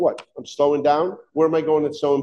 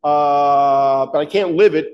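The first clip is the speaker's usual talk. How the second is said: self-satisfied attitude; 2 semitones lower than usual. Retold or imitated. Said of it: "when you have an attitude of".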